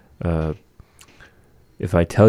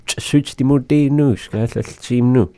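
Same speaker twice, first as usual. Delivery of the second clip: said clearly louder and higher; 5 semitones higher, 5 dB louder than usual. Shown as a demonstration. A teacher showing the learner how to speak up, louder. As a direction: push the phrase out louder. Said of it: "be a little louder".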